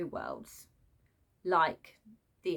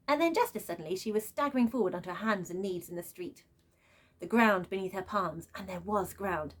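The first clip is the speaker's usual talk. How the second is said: story narration. A narrator's reading. Reader narrating Lila's crossing for her viewers, in a read-aloud voice. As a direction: narrate the passage steadily. Reads book passage aloud.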